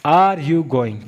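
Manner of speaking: very slow, word by word; teacher's drawn-out example; slow demo. Shown as a demonstration. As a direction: spell it out slowly for the class. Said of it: "कैसे?".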